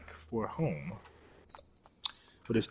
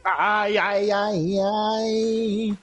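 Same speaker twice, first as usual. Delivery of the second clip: panicked cries; 10 semitones higher, 8 dB louder, much slower than usual. Real, not acted. Burning in game, panicking.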